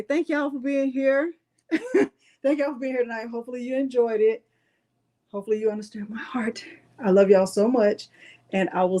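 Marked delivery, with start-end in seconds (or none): 0.0-3.3 choked up. Real, not acted. Emotional thanks closing the live. 5.3-6.6 heartfelt whisper. Real, not acted. Heartfelt closing of the live.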